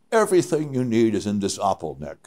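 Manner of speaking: lightly imitated Swiss accent; a touch of a Swiss climber's accent; mildly Swiss-accented pronouncement. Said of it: "he has his Swiss accent".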